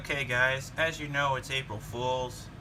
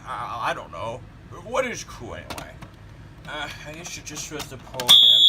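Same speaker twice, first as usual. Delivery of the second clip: put-on old man voice. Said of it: "an old man voice".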